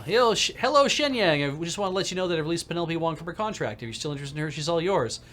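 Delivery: smarmy rival on the phone; smug rival. Acted. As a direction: sound falsely friendly. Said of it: "That's Neville Ma".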